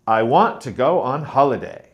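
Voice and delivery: "I want to go on holiday" with alternating strong and weak syllables; alternating sentence stress. Shown as a demonstration. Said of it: "stress changes for every syllable".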